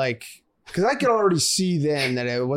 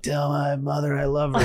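dying man crying out his last words; hammed-up deathbed cry, voice breaking; wounded soldier gasping. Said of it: "I'll be like".

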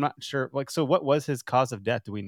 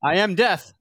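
grim reaper voice; 5 semitones higher, 5 dB louder, slower than usual. Pretend. Playing ominous Roosevelt.

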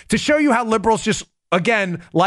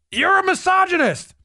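mock accuser; 8 semitones higher than usual. Mocking a liberal's retort.

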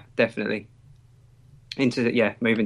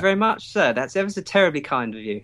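mock upper-class English accent, lightly done; hammed-up posh English politeness; 5 semitones higher than usual. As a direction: play a fussy posh English gent. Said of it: "We don't actually speak like that".

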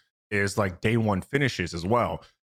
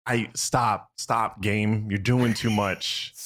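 worn-down, drawn-out plea; weary pleading with the game; much slower than usual. Retold or imitated. Player talking to a game that beats them, pleading. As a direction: beg the game to let up, slowing at the end. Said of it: "you start bleeding".

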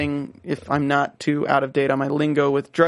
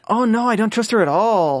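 put-on Cholo accent; 6 semitones higher than usual. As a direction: throw in a hammy Cholo accent. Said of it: "terrible Cholo accent".

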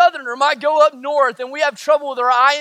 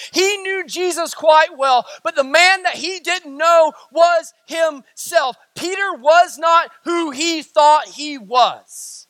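slow, raised, hammering delivery; forceful preaching; slower than usual. Real, not acted. Preacher exposing who Peter really was, forceful preaching. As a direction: preach it with force, stretching each key word.

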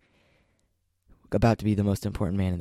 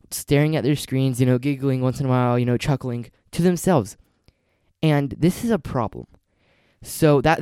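reading an essay; 2 semitones higher than usual. Acted. Reads essay aloud.

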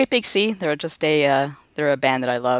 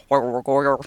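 rough attempt at the moles' rural British accent; imitated mole accent. Recalling Redwall's moles, imitated British mole accent. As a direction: mumble a mock mole dialect. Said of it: "the moles had the".

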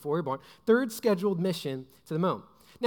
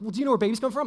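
flustered retort; 4 semitones higher, 5 dB louder, much faster than usual. Retold or imitated. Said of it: "I'm all flustered".

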